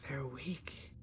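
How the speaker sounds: soft eerie unvoiced whisper. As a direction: tempt him quietly like a voice. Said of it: "is saying".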